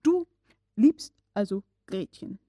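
absent-minded, mechanical repetition; mechanical repeat. A narrator's reading. Uncle repeating the nephew's words mechanically. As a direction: say it by rote, mind elsewhere. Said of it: "wiederholte er maschinenmäßig".

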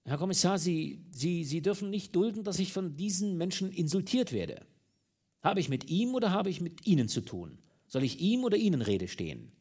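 stammering. A narrator's reading. Exposed minister pleads with the commissioner, stammering. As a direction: stumble over the words in fright. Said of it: "Da stammelte der Liegende".

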